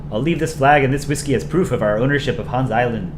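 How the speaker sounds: put-on Canadian accent. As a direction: read it out as a Canadian character. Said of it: "I like my Canadian accent".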